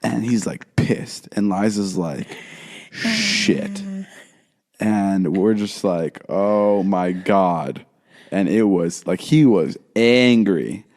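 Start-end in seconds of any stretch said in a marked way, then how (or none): 2.9-3.8 tiny, very high squeak; imitated dismayed squeak. Boyfriend mimicking Liza on learning who the kids are, high squeak. 6.3-7.8 retold horror. Retold shared horror at the mistake.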